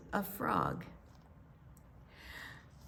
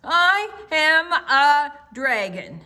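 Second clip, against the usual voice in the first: insistent dragon; 6 semitones higher, 7 dB louder, slower than usual. Acted.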